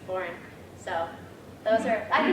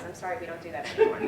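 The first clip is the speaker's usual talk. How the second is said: laughing quote; 3 semitones lower, much faster than usual. Retold or imitated. Woman's reply, laughing through it.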